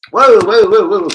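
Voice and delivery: reacting to shocking transfer news; startled whoa. Real, not acted. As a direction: jolt back in shock.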